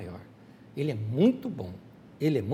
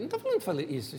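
usual speaking voice

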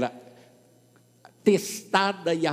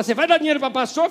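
higher, louder and fast, a scornful challenge; louder, faster mock accusation aimed at the pastor; loud mocking quote; 9 semitones higher, 8 dB louder, faster than usual. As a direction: fire it back at the pastor like an accusation. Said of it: "Aí quando fala".

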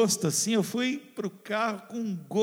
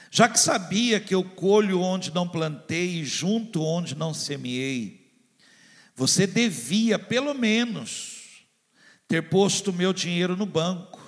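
scripture reading; 3 dB louder than usual. Acted. Pastor reading the parable to the congregation, solemn. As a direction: read the master's words with solemn weight. Pastor reads the master's rebuke.

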